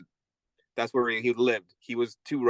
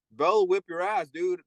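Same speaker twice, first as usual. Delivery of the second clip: pitched higher, a lightly voiced taunting inmate; mocking inmate voice; 5 semitones higher than usual. Old inmate tells a new one the guard will beat him: higher mock voice. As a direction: tease him like an old con egging on a fight.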